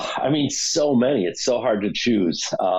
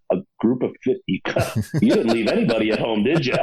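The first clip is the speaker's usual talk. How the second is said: laughing; faster than usual. Retold or imitated. Retelling a joke in line.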